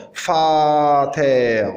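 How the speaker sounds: "Fater" with a long open a; demonstrated pronunciation. Shown as a demonstration. Teacher giving the example for Fao, demonstrated pronunciation. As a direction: say "Fater" slowly, f at the start, falling. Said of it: "Comme fater".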